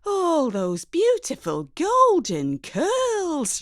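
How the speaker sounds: slow, high lament over lost curls; a hammed-up grieving mother; mourning mum. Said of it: "relentless, unstoppable".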